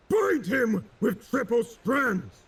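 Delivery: high, slow, wrathful roar. A narrator's reading. Drake commanding his men to bind Kane, wrathful roar. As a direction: roar it out in fury. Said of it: "Drake roared in wrath".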